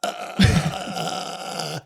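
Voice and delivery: a small breathless uh, lost for words; the actor who forgot his line; mock frozen hesitation; frozen blank. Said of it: "I was like".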